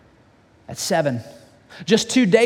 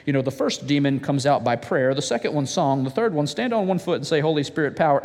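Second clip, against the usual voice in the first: mock lecture; 6 semitones lower than usual. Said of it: "exorcism one oh one class".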